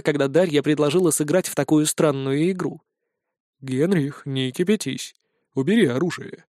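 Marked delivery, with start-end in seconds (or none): 3.6-6.4 soothing persuasion. Acted. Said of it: "продолжил уговаривать его Дантес".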